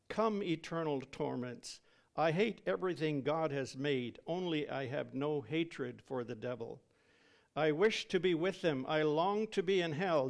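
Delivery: retold terror. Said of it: "spoke of it as a scene of terror".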